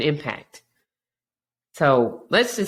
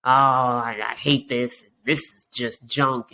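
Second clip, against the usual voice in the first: whiny complainer. Retold or imitated. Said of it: "you're just constantly like".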